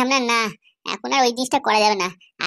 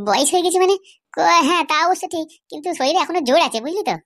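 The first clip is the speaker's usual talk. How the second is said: higher, indignant protest; 6 semitones higher than usual. Acted. Old man, told he's too old to work, indignant protest. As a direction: bristle at being called old.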